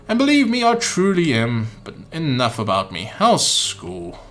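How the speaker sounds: put-on light British accent, half-hearted; a slightly put-on British gentleman. Umbrella Man chatting to the boy in a mild British accent. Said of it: "let's give him a British voice".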